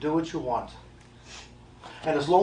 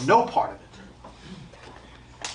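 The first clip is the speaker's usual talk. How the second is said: slow whisper; much slower than usual. Acted. Medium hushing the audience, drawn-out whisper. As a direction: breathe it out, very slow and voiceless. Medium rejecting signs, repeats himself.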